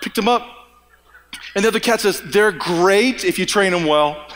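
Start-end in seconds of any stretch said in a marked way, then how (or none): 2.2-4.3 slow, low, lofty cat voice; voicing a lordly cat, drawn out; snooty cat.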